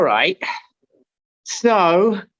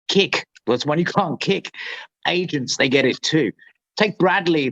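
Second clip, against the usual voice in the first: William Burroughs voice; 4 semitones lower than usual. Acted. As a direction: read it as a weary beat-era author. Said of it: "I'm gonna do my best William Burroughs voice".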